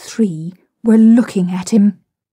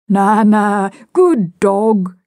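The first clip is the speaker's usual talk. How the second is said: louder, drawn-out petting talk; coaxing the dog; 5 dB louder, much slower than usual. A narrator's reading. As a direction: praise the dog, a bit too heartily. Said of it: "he said, patting her".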